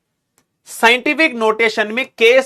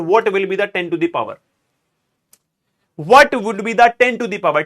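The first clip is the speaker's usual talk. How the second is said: slow question; much slower than usual. Shown as a demonstration. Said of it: "teacher asks class, drawn out".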